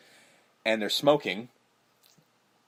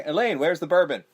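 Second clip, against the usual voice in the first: lightly raised calling voice, higher pitch; imitated man calling out for bourbon; calling upstairs; 4 semitones higher than usual. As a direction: call up to Elaine for the bourbon. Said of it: "the man calls up".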